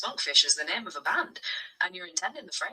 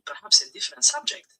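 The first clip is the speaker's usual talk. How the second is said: put-on French accent; 5 semitones higher than usual. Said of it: "speak English within a French accent".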